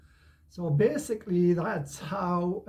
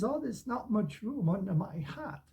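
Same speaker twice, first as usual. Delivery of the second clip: lightly voiced reluctant storybook rabbit, a little higher; 4 semitones higher, 4 dB quieter than usual. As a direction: gently put off the visitor. Acting reluctant Robbie the rabbit.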